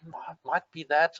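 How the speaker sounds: slow, doubtful musing; mild put-on uncertainty, drawn out; unsure hedging. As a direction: hedge it as if you're not sure. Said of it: "When we're not quite sure".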